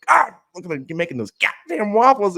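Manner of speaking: high, loud hammed-up ogling; mock leer. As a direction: ogle her like a cartoon creep. Leering at wife making waffles.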